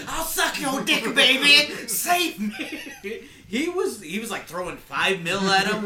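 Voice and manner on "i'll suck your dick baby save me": high, slow pleading mock voice; begging Sal. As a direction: whimper it like a begging gangster.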